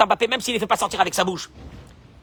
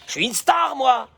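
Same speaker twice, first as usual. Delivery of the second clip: higher, preening self-praise; smug star boast; 5 semitones higher than usual. Pretend. Preacher mocking a husband who thinks he is a star, pitched up. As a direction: crow about being a star.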